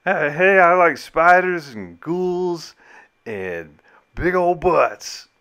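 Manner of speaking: high, excitable voice, drawn-out words; Charlie impression. Host mimicking Scott as a sitcom oddball, high hammed-up impression. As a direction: push the voice way up high and stretch it. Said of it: "sounds like Charlie from Always Sunny".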